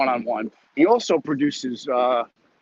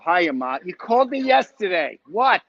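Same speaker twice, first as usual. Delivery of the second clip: higher, chirpy mock phone greeting; imitating himself; 5 semitones higher than usual. Son calling his mother, higher and chirpy. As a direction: play your own eager self calling Mom. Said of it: "I go".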